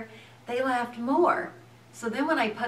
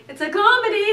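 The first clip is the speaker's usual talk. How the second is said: high, loud comic protest; mock desperate cheer; 12 semitones higher, 10 dB louder, faster than usual. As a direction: push it up high and loud, hammed-up. Acting out carrying on while bleeding.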